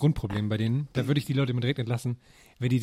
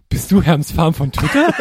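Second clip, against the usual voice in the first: excited fan call; 4 semitones higher, 10 dB louder, slower than usual. Retold or imitated. Stranger recognizing him, retold.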